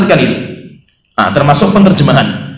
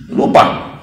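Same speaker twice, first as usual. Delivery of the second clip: whispered; 4 dB quieter than usual. Shown as a demonstration. Preacher whispering the word's meaning to the congregation. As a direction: breathe the word out in a whisper.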